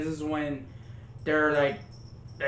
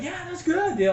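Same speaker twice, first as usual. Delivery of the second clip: Holland mocked; 14 semitones higher, faster than usual. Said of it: "I like how Holland was like".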